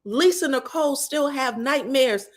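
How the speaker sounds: high, building into a laughing exclamation; incredulous retort. Retold or imitated. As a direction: climb to a loud, stretched final word. Acted incredulous retort to Quad.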